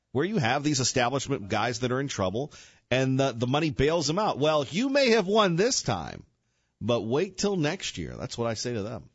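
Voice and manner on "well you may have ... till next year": slow, emphatic, drawn-out warning; mock warning. Radio host addressing establishment politicians, slow mock warning. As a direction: warn them slowly, leaning on the words.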